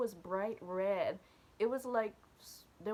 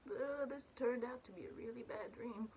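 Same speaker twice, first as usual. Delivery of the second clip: softer dismayed groan; 7 dB quieter than usual. Retold or imitated. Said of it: "And I'm like".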